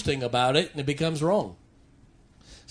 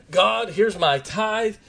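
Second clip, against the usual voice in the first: sincere prayer; 4 semitones higher, slower than usual. Pretend. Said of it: "You can say".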